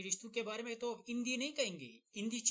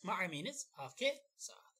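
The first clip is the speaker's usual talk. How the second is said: whisper. Shown as a demonstration.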